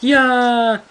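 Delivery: high mock "yeah"; drawn-out cartoon cheer; imitated cartoon character. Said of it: "He's like".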